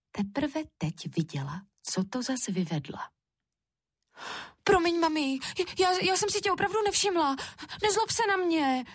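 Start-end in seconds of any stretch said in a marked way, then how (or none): 4.6-8.8 put-on high, pleading little-girl voice; alarmed, apologetic child. A narrator's reading. Frightened Šárka apologises to mami, pleading. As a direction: apologise pleadingly, stumbling over the start. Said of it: "Šárka se polekala".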